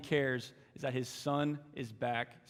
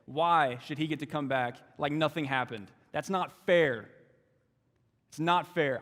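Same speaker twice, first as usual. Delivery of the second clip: loud, pitched-up complaint, bitter and hurt; aggrieved older son; 2 semitones higher, 4 dB louder than usual. Acted. Older son pleading his case to the father, loud and hurt. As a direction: voice the resentful brother's protest. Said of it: "But he answered his father".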